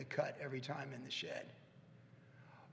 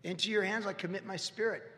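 prayerful quote; 4 semitones higher than usual. Shown as a demonstration. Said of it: "Just say what Jesus said on the cross".

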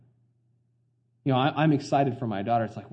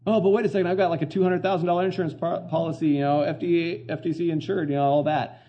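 mock smug investor; 5 semitones higher than usual. Mocking a smug insured investor.

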